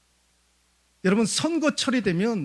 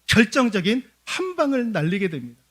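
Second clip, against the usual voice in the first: ordinary delivery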